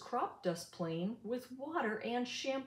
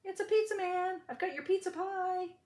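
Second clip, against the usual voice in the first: fake delivery man; 10 semitones higher than usual. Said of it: "Farmer lied".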